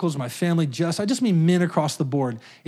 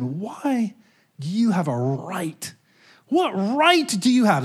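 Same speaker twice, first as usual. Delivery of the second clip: God's voice; 3 semitones higher, slower than usual. Retold or imitated. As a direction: ask it like God confronting you, slowly. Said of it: "This is the way God talked to me".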